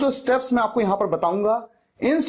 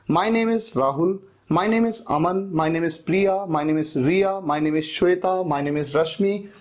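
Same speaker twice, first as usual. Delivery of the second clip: model examples; slower than usual. Shown as a demonstration. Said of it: "सबसे best तरीका है my name is".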